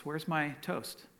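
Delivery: acted sigh of resignation; sighing wife. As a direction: draw it out like a let-down wife. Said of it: "looks up at him and sighs".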